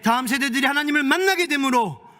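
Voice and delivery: high, loud, driving blessing prayer; forceful preaching. Acted. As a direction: preach it out with full force to the congregation.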